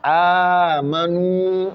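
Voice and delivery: Amanu very slow, A stretched; long A. Shown as a demonstration. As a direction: drag out the first A of Amanu. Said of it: "négliger le A qu'on doit tirer".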